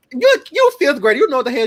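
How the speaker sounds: high-pitched disbelief; high incredulous kid voice. Retold or imitated. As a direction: squeak it out in disbelief. Kid retelling teacher scene, high.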